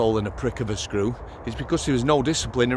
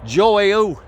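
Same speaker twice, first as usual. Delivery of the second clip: surprised; 6 semitones higher, 5 dB louder than usual. Retold or imitated. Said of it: "I went".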